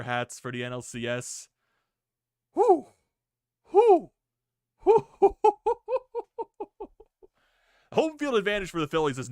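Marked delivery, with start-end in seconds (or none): 2.5-4.1 high, loud relieved whoop; loud whew. Real, not acted. Fan exhaling after win. 5.1-6.9 high breathy laughter; delighted laugh. Real, not acted. Fan laughing after cheer.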